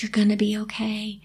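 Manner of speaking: soft unvoiced reassurance; whispered comfort to a crying rider; gentle hush. He whispers comfort to crying Grace, softly.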